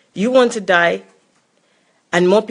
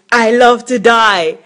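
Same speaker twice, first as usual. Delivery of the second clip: quoting him; 2 semitones higher, 4 dB louder, slower than usual. Retold or imitated. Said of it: "as he was saying".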